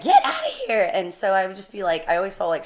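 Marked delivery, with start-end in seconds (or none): 0.0-0.9 high, loud, laughing get-outta-here; mock dismissive voice of the listeners; dismissive scoff. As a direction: brush it off like they don't buy it. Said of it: "You know, like".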